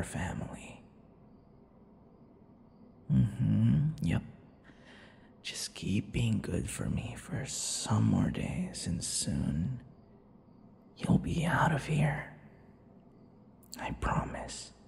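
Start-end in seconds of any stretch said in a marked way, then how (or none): 5.4-14.7 hushed slow promise; soothing whisper. Acted. Vampire soothing his captive, whispered and slow. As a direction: whisper it close like a secret.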